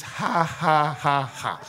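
spaced-out, mock "ha ha"; deliberate forced laugh. Shown as a demonstration. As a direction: fake a laugh syllable by syllable. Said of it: "Sometimes learn to laugh".

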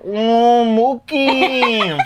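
high, drawn-out comic wail; hammed-up high squeal, laugh in it; Rosie Perez impression. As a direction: mimic a comedian's over-the-top celebrity impression, high-pitched. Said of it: "She always tries to do Rosie Perez".

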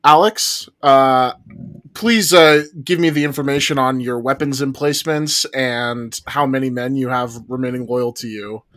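formal wartime host demanding a report; mock military commander. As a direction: play at commanding a rival general.

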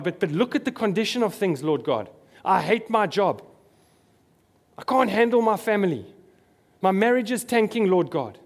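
fast, whiny list of gripes to God; hammed-up moaning believer, a touch pushed; mock complaining prayer. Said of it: "just a list of complaints".

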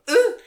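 short imitated voice break; voice-crack squawk. Host mimics own voice breaking, voice-crack squawk. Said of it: "Even then, my voice broke".

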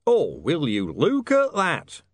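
high, loud, drawn-out amazement; tremendous astonishment. A narrator's reading. Harry at the window feigns a discovery, astonished. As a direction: stretch it out in staged disbelief. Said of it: "in tremendous astonishment".

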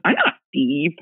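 lightly imitating a tiny ghost voice; a hint of a very little voice answering back. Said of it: "this had a very little voice".

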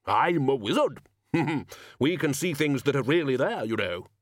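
lightly voiced, amused Arch-Chancellor; boastful wizard. Wizard explaining himself to the gnome, boastful. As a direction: boast with a little chuckle.

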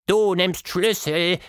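a broken-speaking little mouse. A narrator's reading. The breathless mouse to its captors, slow mouse voice.

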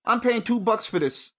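a hint of a greedy shop owner bragging; pretending to be a greedy shop owner. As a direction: play the gouging shopkeeper, lightly. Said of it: "'Cause if I was an ox".

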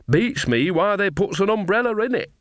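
put-on cheerful old witch, puzzled. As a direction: wonder aloud as a tipsy, cheery witch.

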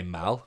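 "mal" said with a short flat a; "mal" rhymes with pal; mal pronunciation. Shown as a demonstration. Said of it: "that we say".

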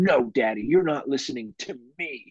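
mild imitation of a huffy child; mock tantrum. Dad retelling his daughter's fit, mock huffy. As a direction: whine it lightly like a kid's tantrum. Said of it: "she was throwing a shit fit".

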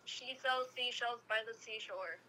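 slow, careful S sounds; careful tongue twister. Shown as a demonstration. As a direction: spell out each S slowly. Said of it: "catch you slipping up one day speaking perfect S's".

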